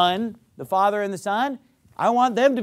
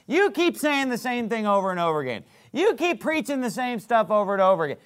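complaining objector; 4 semitones higher than usual. Acted. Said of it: "You say".

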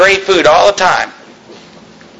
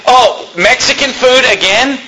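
higher-pitched, drawn-out grumble about the menu; mock complaint; 6 semitones higher than usual. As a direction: imitate someone complaining at dinner. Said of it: "we complain because".

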